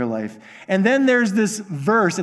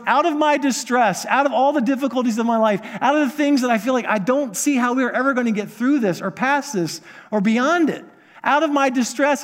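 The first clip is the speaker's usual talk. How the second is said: higher, urgent plea to God; pleading psalmist; 4 semitones higher than usual. Retold or imitated. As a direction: cry it out like a desperate man. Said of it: "words of a man crying out to God".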